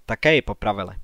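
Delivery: ordinary delivery, nothing marked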